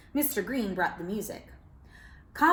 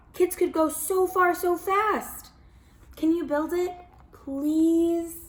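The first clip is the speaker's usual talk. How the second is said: put-on higher, earnest child voice; hopeful kids' letter; 6 semitones higher than usual. Children writing to the landlord, sweetly pleading. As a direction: read it like a kid begging nicely.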